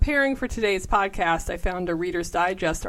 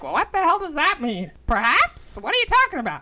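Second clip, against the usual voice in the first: shrill-free but much higher, fed-up mother voice; imitating indignant mom; 9 semitones higher than usual. Daughter mimics her mom scoffing at a polite "Perhaps". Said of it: "my mom would be like".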